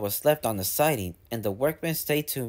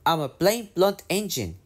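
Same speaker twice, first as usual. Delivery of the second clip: cross; 6 semitones higher than usual. A narrator's reading. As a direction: grumble it, stubborn and put out. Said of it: "Duncan was cross".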